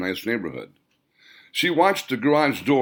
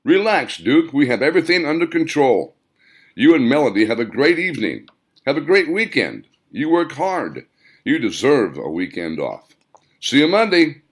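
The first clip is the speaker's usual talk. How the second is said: higher, brisk voice of the manager; shift manager on speakerphone; 4 semitones higher, 5 dB louder than usual. Acted. Plant manager reassuring Duke over the speakerphone, higher-voiced. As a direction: pitch it up for the friendly boss on the line.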